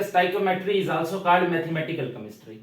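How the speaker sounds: each word spaced out slowly for notes; steady teacher dictation pace. Shown as a demonstration. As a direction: dictate it slowly so they can write. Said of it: "किताब पर लिख लो".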